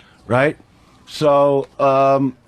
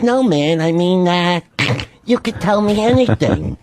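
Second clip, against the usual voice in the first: lightly voiced agent, slightly raised pitch; a hint of an earnest agent coaxing; Dennis; 3 semitones higher than usual. Agent urging his upset client to confide, lightly imitated. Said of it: "And he goes".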